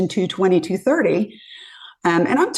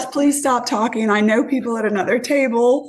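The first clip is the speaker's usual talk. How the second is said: higher-pitched retold plea; mortified pleading; 5 semitones higher than usual. Woman to drunk date near people she knows, mock mortified.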